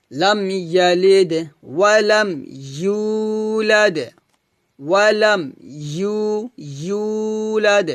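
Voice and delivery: slow, drawn-out melodic tajweed recitation; Quran recitation. Shown as a demonstration. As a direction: recite it slowly with a melodic chant. Full recitation. (ধীর সুরেলা কুরআন তিলাওয়াত)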